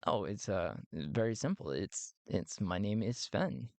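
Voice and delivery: low, halting character reply; lightly voiced hesitant visitor; reserved visitor. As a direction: answer modestly, low in the voice. Visitor answers the accented host.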